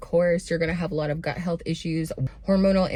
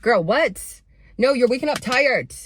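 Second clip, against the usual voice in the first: incredulous callout; 6 semitones higher, 5 dB louder than usual. Real, not acted. Calling out viewer's excuse.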